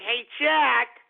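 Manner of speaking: slow, drawn-out whiny plea for help; mocking Leslie Jones. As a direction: play her as a helpless victim begging, slowly. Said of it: "You're gonna call Jack and say".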